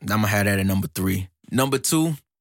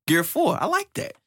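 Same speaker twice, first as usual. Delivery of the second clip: higher, tickled villain voice; excited villain. Retold or imitated. Host voices Doflamingo sizing up Gear four, excited. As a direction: imitate a villain getting excited by his rival. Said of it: "Doflamingo got excited".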